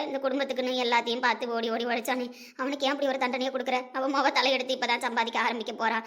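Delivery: a grieving grandmother begging god; anguished prayer. Acted. Grandmother prays to goddess. (கடவுளிடம் வேதனையுடன் மன்றாடல்)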